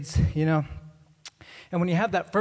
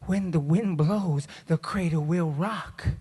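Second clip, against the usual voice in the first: ominous lullaby, escalating; dramatic rhyme reading; slower than usual. Acted. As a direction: recite gravely, rising to the disaster. Dramatic rhyme reading building to fall.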